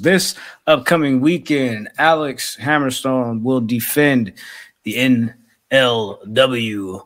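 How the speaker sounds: lightly done ring announcer read. Shown as a demonstration. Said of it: "You like my announcer voice?".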